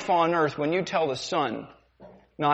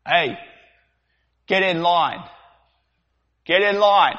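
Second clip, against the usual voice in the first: slaver shouting; 4 semitones higher, 5 dB louder than usual. Acted. Sailor yelling at a slave to line up. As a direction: bark the slave back into line. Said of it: "The demonstration".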